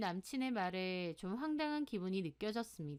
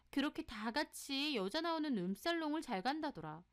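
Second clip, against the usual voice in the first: higher-pitched, mildly scandalized tattling; scandalized gossipy friend; 3 semitones higher than usual. Acted. Friend reports the boyfriend's nightlife to her, scandalized. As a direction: pass on gossip with a touch of shock.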